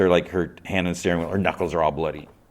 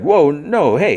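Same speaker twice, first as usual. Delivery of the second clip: loud, high defensive objection; acted panicky denial; alarmed protest; 10 semitones higher, 10 dB louder, slower than usual. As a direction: fend off the blame fast. Guy protests being blamed.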